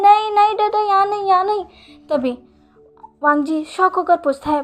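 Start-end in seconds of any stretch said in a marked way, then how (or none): 0.0-1.6 put-on much higher, louder child voice; urgent no, no from a little boy; child protesting. A narrator's reading. Boy stops his father from putting him in bed, higher protest.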